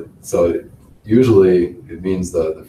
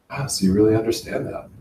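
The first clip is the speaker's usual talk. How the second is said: higher-pitched, affirming take; 4 semitones higher than usual. Shown as a demonstration. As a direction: say it as if confirming they understand. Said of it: "one is affirming".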